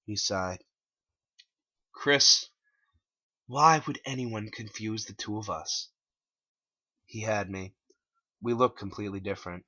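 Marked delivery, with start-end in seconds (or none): 1.9-5.9 Clyde voice. Acted. Clyde replies.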